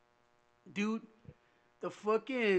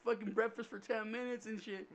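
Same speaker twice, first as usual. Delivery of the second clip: retold sob story; 5 semitones higher than usual. Kid phoning mom from boot camp, mock sob story. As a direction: imitate a kid whining to mom. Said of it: "giving her the sob story".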